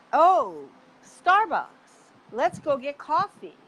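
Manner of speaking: high, eager Starbucks; light up at the sight of it, pitch jumping; excited discovery. Retold or imitated. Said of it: "and I'm like".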